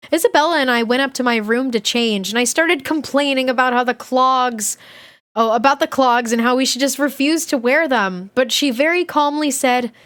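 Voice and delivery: animated diary read-aloud; expressive storybook reading with swooping tune; story narration. A narrator's reading. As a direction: read a kid's diary with lively emphasis.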